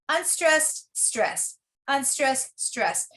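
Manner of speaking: softly measured "unstressed, stress" beat; alternating stress. Shown as a demonstration. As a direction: pulse "unstressed, stress" in even steps. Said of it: "a heartbeat, kind of a stress".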